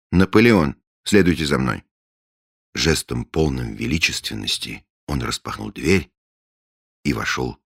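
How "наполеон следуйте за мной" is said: loud, proud self-introduction; imperious. Acted. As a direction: command like an emperor. Grandly names himself Napoleon.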